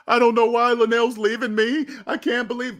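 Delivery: imitated disbelief and dismay; mock distraught. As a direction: wail it mildly, as a mocking quote. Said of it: "Telling everybody".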